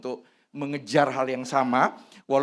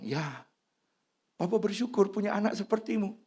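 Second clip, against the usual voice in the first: tender fatherly talk; 4 semitones lower than usual. Retold or imitated. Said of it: "Saya bilang".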